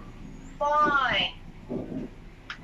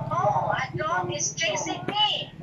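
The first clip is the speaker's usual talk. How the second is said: mock fright; 5 semitones higher than usual. Shown as a demonstration. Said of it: "What feeling is that?".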